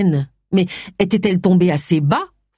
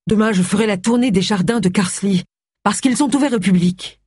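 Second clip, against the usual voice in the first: higher-pitched, resolute reply; lightly voiced determined Agatha; 5 semitones higher than usual. Agatha telling Charles tomorrow's plan, mildly determined. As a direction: state the plan in a raised voice pitch.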